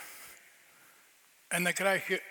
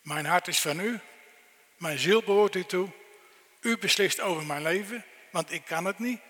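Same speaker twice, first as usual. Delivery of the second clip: fervent prayer, a touch louder at times; earnest prayer; 4 dB louder than usual. Pretend. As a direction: pray it as your own, humbly. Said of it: "om te zeggen".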